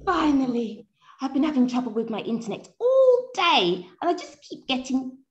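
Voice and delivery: high, faint voice on a poor line; bad connection. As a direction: complain faintly through a failing call. Bad internet connection, then cut off.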